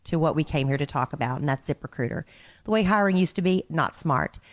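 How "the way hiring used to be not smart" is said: ad read. Acted. Reading sponsor ad.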